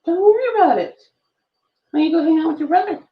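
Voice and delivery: usual speaking voice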